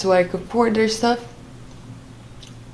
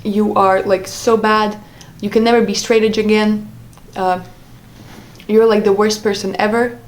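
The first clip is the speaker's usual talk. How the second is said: mildly heated imitation of an accusing partner; retold angry outburst. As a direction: fire off retold insults, slightly raised voice. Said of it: "throwing every insult in the book at me".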